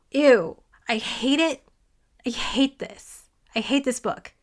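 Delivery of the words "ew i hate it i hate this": real whispered disgust under breath; whispered aside. Real, not acted. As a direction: whisper it to yourself. Muttered aside about disliked book.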